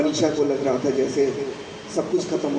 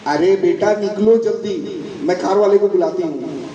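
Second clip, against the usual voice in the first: raised, urgent motherly call; hurrying mother; 3 semitones higher, 3 dB louder than usual. Acted. Mother calls her daughter to leave quickly, urgent. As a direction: hurry her along, pitched a bit higher.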